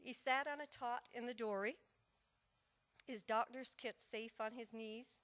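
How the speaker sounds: rhythmic storytelling in verse; lilting verse narration with measured pauses; narrative poem recital. Acted. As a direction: tell the tale as a ballad, leaning on the beat.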